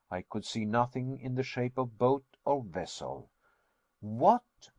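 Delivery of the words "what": surprised cry. A narrator's reading. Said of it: "I cried".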